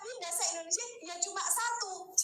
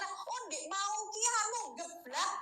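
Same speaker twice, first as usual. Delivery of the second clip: lightly voiced Javanese villager explaining; a casual Javanese retelling, a bit higher; Javanese speech; 5 semitones higher than usual. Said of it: "coba bahasa Indonesia kan geblak". (logat Jawa santai)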